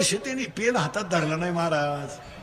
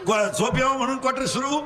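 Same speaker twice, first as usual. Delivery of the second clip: call-and-response preaching; 5 semitones higher than usual. Real, not acted. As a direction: leave the end rising for them to finish. (पोरांकडून वदवून घेणारा चढा सूर)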